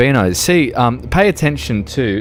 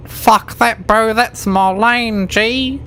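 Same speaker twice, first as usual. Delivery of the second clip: 1 mock aggressive driver; 9 semitones higher, slower than usual. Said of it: "they'll be like".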